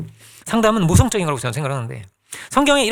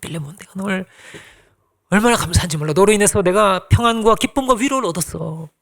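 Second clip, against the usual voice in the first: tender praise. Acted. Paul praising Philemon in his letter, tenderly. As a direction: speak fondly as a proud father. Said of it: "이렇게 칭찬을 해주는 거예요".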